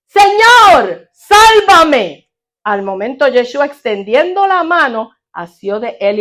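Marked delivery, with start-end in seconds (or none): 0.1-2.3 louder, higher cry of a sinking man; cry for help. Acted. Peter sinking in the sea cries to the Lord, loud and high. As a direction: call out desperately for rescue. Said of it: "dio voces diciendo".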